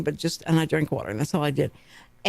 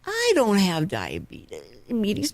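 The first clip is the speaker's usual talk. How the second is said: imagined listener's protest; much slower than usual. Retold or imitated. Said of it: "you may go like".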